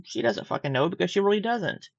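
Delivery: talking through a yawn; stifle a yawn as you speak. Real, not acted. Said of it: "I keep yawning".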